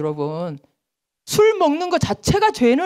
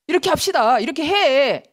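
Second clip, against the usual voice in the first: higher bossy instruction; know-it-all instructing; 4 semitones higher than usual. Retold or imitated. Law teacher bossing people around, higher instructing tone. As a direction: tell them how it is done. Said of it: "하고 율법 교사가 된다는 거예요".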